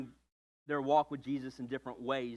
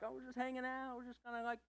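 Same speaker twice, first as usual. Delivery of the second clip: a hint of a nervous dater, building to louder exasperation; dodging the where-is-this-going question; dodging partner; 8 semitones higher, 4 dB louder than usual. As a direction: brush it off, then snap at the delay. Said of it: "you can't be just like".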